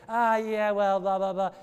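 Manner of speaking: loud, careless brush-off; mock dismissive. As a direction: mimic someone shrugging off the sermon. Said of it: "If you walk out and say".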